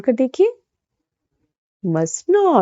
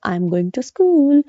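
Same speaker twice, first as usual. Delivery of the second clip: slow, careful model read, a touch higher; slow model sentence; 4 semitones higher, much slower than usual. Shown as a demonstration. Teacher modelling the sentence slowly for beginners. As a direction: say it slowly so they can copy. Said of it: "तो क्या बोलेंगे?".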